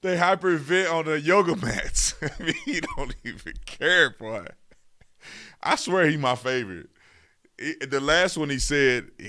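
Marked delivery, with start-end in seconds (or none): 0.0-4.5 imitating Senator Kennedy. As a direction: parrot the senator's line through a laugh. Quoting Kennedy clip, laughing.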